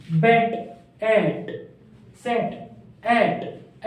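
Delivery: बैट, एट, सेट, एट said with a short open e; pronunciation drill. Shown as a demonstration. Teacher drilling students on vowel sounds, crisp and clear. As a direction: model each word crisply for the class to repeat. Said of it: "तो चलिए pronounce कीजिए टेड".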